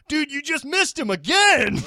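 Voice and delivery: high, loud, laughing through it; laughing bouncer. Retold or imitated. Bouncer tells him he missed him again, laughing. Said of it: "the bouncer's like".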